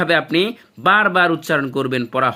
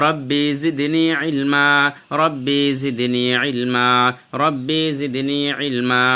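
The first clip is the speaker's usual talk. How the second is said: slow, repeated Arabic supplication; prayerful recitation; much slower than usual. Real, not acted. Teacher praying for knowledge before the lesson, slow and reverent. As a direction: pray it slowly, line by line.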